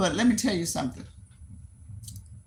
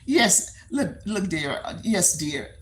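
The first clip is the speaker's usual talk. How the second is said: condescending. Retold or imitated. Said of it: "as if everybody is beneath her".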